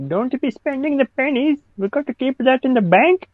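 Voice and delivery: stereotype Indian voice. Retold or imitated. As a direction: put on the cartoon thrifty elder. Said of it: "that Indian type voice in his head".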